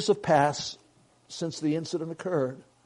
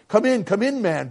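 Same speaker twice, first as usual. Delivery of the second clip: higher, louder call to come in; urgent welcome; 6 semitones higher, 6 dB louder than usual. A narrator's reading. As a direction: usher someone in urgently. Welcoming a stranger in from blizzard.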